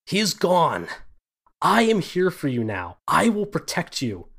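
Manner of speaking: a vampire lord promising protection, loud and high; possessive vampire lord. Acted. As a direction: claim her as your own, forcefully. Vampire lord claims his bride.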